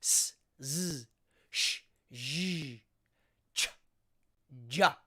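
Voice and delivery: s then z, sh then zh, ch then ja, alternating unvoiced and voiced; voiceless then voiced pairs. Shown as a demonstration. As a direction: drill each voiceless sound and then its voiced partner. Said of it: "the voiceless and then the voice".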